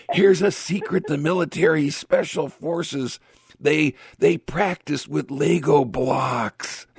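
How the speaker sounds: half-whispered secret right in your ear; Joe Biden whisper. Retold or imitated. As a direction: lean into the mic and confide. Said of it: "I'm going to whisper into the microphone".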